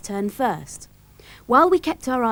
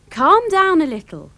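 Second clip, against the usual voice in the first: raised, emphatic parental check; firm calming; 7 semitones higher, 4 dB louder than usual. A narrator's reading. Father to overexcited Dilly, raised and firm. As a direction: rein in an overexcited child. Father reins in excited child.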